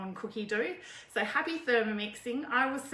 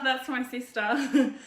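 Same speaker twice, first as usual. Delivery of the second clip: slow and teary, eyes streaming from onions; tears in the voice from chopping onions; a real onion-tear wobble; 3 semitones higher, 6 dB louder, slower than usual. Real, not acted. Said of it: "I'm about to cry now".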